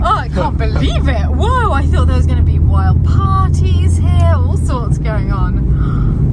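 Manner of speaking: loud, slow amazed whoa; surprised. Real, not acted. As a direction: draw it out in wonder. Reacting to the house.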